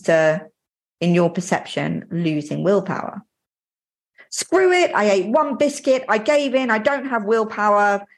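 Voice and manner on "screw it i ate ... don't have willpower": hammed-up exasperated self-talk; mock giving up. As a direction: act out throwing in the towel. Voicing defeated self-talk after a biscuit.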